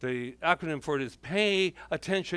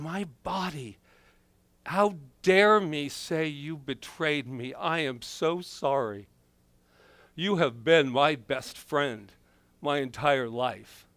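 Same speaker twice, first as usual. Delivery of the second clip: tender apology; slower than usual. Acted. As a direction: apologize gently to an old friend. Apologizing to her own body.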